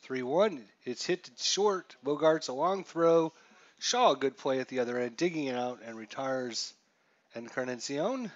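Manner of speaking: play-by-play call. Acted. Announcer calling a long throw to first, lively. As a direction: follow the ball to first.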